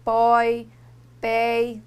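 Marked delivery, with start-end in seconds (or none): none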